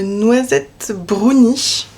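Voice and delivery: slow, savouring the name; drawn out. Real, not acted. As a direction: stretch out the tea name.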